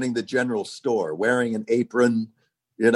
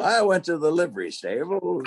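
put-on higher-pitched Old West local; Western townsman; 6 semitones higher than usual. Townsman talking of the livery stable, high Western voice. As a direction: play an old Western town character. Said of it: "a guy in the Western towns".

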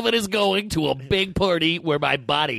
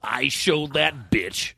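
smug aside; slower than usual. Retold or imitated.

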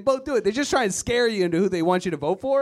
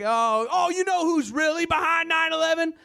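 higher, eager conspiracy voice; conspiracy redneck relative; 9 semitones higher than usual. Retold or imitated. Comic imitating his redneck relative at Christmas, higher conspiratorial voice. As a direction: play the relative leaning in with a secret. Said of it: "every time it's like".

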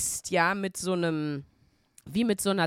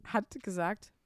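normal talking voice

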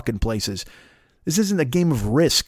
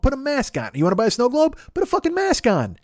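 exasperated yell; 10 semitones higher than usual. Acted. Comic yelling at anti-maskers.

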